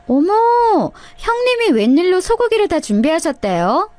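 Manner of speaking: sneering surprise. Acted. Sister-in-law sneers at the beef.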